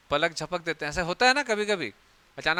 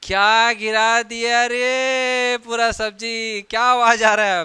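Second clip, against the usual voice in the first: a slow, drawn-out mock scold from another room; hammed-up mother shouting about spilt sabzi; scolding mother's call; 5 semitones higher, 7 dB louder, much slower than usual. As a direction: call out like an annoyed mom from the next room. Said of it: "बाहर से फिर आवाज़ आता है".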